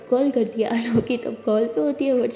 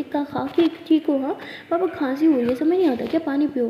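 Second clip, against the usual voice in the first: louder, exasperated mother telling off; scolding; 3 semitones higher, 4 dB louder than usual. Acted. Mother scolding her coughing daughter, louder and exasperated. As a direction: scold her for not drinking water.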